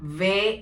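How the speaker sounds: വേ said "vay" with a v; German letter W. Shown as a demonstration. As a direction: say വേ slowly, like German "We". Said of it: "ഡബ്ല്യു നമ്മൾ pronounce ചെയ്യുന്നത്".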